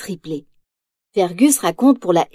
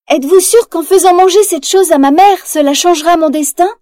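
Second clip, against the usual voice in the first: high, louder worried asking; anxious question; 7 semitones higher, 4 dB louder than usual. Acted. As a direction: ask the witch, unsure. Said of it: "demande Mérida".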